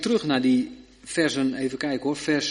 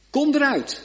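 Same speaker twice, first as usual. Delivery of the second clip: much higher, louder ringing command; krachtig bevel; 11 semitones higher, 5 dB louder than usual. Acted. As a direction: call it out with full power. Jezus' bevel, climax. (hoog en luid uitgeroepen: Kom eruit)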